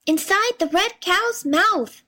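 high, slow small voice calling out; tiny voice shouting. A narrator's reading. Tom tells his mother where he is, slow high call. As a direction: pipe up slowly like a tiny boy. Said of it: "he shouted".

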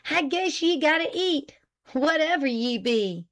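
high-pitched country wife voice; sharp. A narrator's reading. Wife grudgingly feeding her confessed husband, sharp. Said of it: "she said sharply".

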